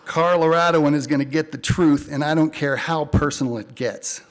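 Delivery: hard-boiled detective narration; deadpan film noir voiceover. Acted. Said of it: "I narrate my stories in a film noir style".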